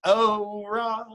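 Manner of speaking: Texas ora. Shown as a demonstration. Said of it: "from Texas".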